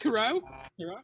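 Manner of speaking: put-on high-pitched, half-hearted stab at an Asian accent; badly faked Asian accent, rising questioningly; attempted Asian accent. Comedian imitating a band's Asian tour accountant, failed Asian accent. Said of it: "I can't even do an accent".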